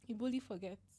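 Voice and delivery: soft, tearful and shaky; after crying. Real, not acted. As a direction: quietly, still in tears. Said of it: "That was a good cry".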